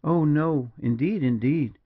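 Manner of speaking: high, emphatic protest; earnest, lifted denial; intensely earnest. A narrator's reading. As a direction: protest with heartfelt insistence. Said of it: "in the intensity of her earnestness".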